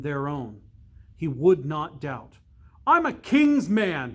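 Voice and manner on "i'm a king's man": higher, louder defiant shout. Acted. Littlechild shouting his loyalty into the dark. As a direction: fling it out to beat back the fear. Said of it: "he shouted".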